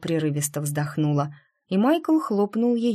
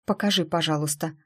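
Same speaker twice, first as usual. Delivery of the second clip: ordinary delivery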